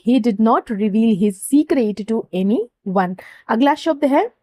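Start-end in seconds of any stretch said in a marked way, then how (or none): 0.1-3.2 very slow, word by word English sentence; slow dictation. Shown as a demonstration. Teacher dictating an example sentence to students, very slow. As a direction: dictate each word slowly for note-taking. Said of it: "तो हम कैसे बोलेंगे".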